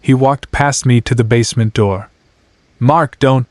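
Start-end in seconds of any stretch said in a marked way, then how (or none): 2.8-3.5 warning. Acted. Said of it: "I warned".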